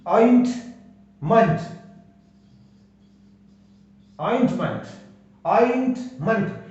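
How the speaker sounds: ऑइंटमेंट said carefully with a final "munt"; weak-ending demonstration. Shown as a demonstration. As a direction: repeat ऑइंटमेंट, reducing the last vowel to a schwa. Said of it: "last में वीक sound आता है". (ऑइंटमेंट दोहराएं, अंत में हल्का "मंट")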